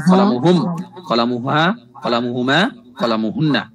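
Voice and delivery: শিক্ষকের আরবি উচ্চারণ; Arabic word forms. Shown as a demonstration. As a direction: recite each Arabic form clearly, one by one. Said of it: "কলম দিয়ে বুঝেছে".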